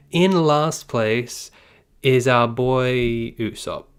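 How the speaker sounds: slow, stretched ranking reveal; drawn-out announcement. Acted. Streamer building suspense for chat, slow drawn-out reveal. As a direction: drag out each word for suspense. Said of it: "yes, drum roll".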